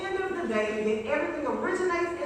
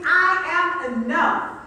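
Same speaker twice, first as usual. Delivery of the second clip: booming motivational speech; 3 semitones higher, 5 dB louder, slower than usual. Acted. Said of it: "like you really know it".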